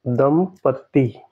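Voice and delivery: दंपत्ति stretched slowly with a held त्ति; teacher drawing out दंपत्ति; slow model word. Shown as a demonstration. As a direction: say दंपत्ति slowly so they hear it. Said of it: "इसका क्या होगा".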